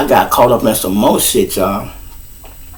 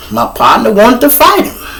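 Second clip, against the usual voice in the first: high, exasperated whine; a cop griping that he's in trouble; whiny cop; 5 semitones higher than usual. Retold or imitated. Officer griping to his partner, high and whiny.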